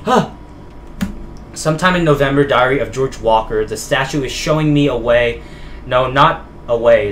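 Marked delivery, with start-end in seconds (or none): 1.5-7.1 measured, dramatic diary narration; diary read-aloud. Acted. Player reading George Walker's found diary to viewers, dramatic read-aloud.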